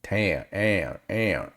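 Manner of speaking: "Town" stretched into a long Southern "am, am"; Southern drawn-out vowel. Shown as a demonstration. Reactor showing viewers the Southern vowel in "Town". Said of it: "That right there".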